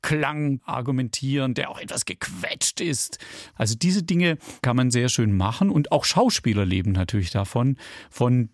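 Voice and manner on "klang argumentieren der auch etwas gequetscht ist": somewhat rejecting, pressed sound; dismissive, squeezed. Shown as a demonstration. Speaker demonstrating timbre to listeners, dismissive and squeezed. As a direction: argue in a slightly squeezed, very German tone. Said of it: "etwas abweisenden, ... sehr deutschen Klang".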